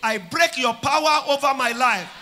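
shouted prayer line, "Poverty" loud; loud call to repeat. Shown as a demonstration. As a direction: lead the crowd in a loud shout. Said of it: "Say it again".

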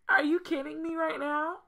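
high, loud outraged disbelief; exasperated outburst. Real, not acted. Gamer yelling at her Sims game over twins. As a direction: shout it in disbelief.

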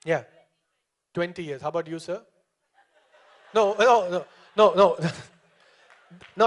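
normal talking voice

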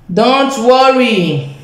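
drawn-out reassurance. Shown as a demonstration. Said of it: "Don't worry if you are a learner".

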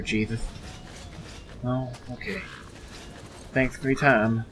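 lightly voiced silly door-to-door preacher, a touch quick; a hint of a goofy street evangelist; silly put-on voice. Greeting a stranger in the game, lightly voiced silly preacher. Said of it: "This one's a silly one".

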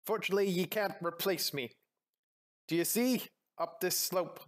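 lightly voiced pirate showing the way; touch of sea-dog brogue; pirate captain. Pirate guiding a new crewmate up a slope, lightly voiced pirate.

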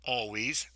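"always" set apart for emphasis; deliberate emphasis on "always"; stress on always. Shown as a demonstration. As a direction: make the word "always" stand out. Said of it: "I emphasize the word always".

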